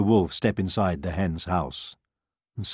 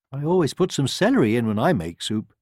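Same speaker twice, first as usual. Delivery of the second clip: hen voice; 5 semitones higher, 4 dB louder than usual. A narrator's reading. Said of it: "she remarked".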